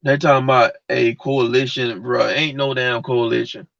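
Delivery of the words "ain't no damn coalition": ordinary delivery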